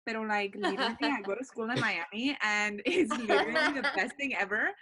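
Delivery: Hispanic-accented Miami chatter, laughing through it. Shown as a demonstration. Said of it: "I can do a Hispanic accent".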